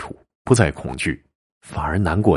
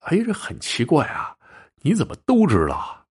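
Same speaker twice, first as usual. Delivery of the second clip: much higher, puzzled exclamation; baffled, how can he know; bewildered; 11 semitones higher than usual. Acted. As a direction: fisherman startled the innkeeper knows him. Xu baffled by innkeeper.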